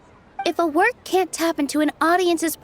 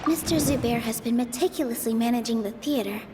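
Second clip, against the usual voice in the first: soft, hushed thinking to herself; quiet inner thought; 6 semitones lower, 9 dB quieter than usual. Acted. Nilou coaching herself silently mid-debate, soft and hushed. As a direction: murmur the plan under her breath.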